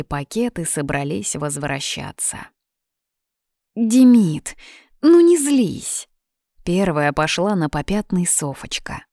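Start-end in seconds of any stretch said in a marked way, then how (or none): 3.7-6.1 high, loud, drawn-out plea; pleading, placating. A narrator's reading. Girl backing down before the angry boy, pleading. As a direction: coax him out of his temper, stretching it.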